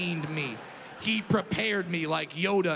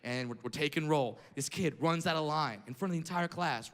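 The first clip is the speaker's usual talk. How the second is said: ordinary talk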